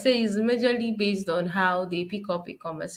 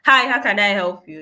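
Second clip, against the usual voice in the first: brisk phone answer; 7 dB louder than usual. Retold or imitated. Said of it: "answered you by saying".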